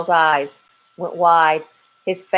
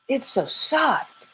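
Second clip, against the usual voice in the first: a small chick cooing over a find; marveling chick; 8 semitones higher, slower than usual. Acted.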